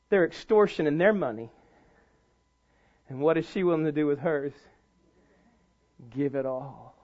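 low, soft, solemn delivery with long pauses; hushed preaching. Real, not acted. Preacher contrasting her gift with the priests, hushed. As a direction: drop right down and let each phrase land.

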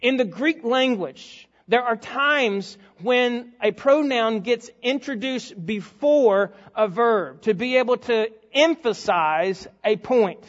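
ordinary delivery

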